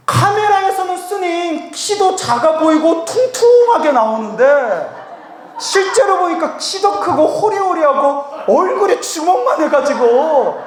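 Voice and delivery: high, insistent mock explanation; aggrieved fan. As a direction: protest innocence in a gushing fan's voice. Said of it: "그분이 막 억울하다고 하면서". (억울한 듯 높은 톤으로 변명)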